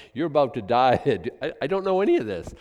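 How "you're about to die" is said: louder, mock menacing growl of the angel; hammed-up threat while half laughing. Preacher voicing the angel seizing Moses, mock threat. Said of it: "hung him up like".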